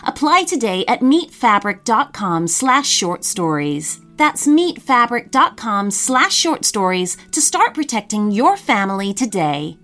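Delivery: upbeat sponsor read. Acted. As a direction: sell it like a radio ad. Podcast promo and sponsor ad.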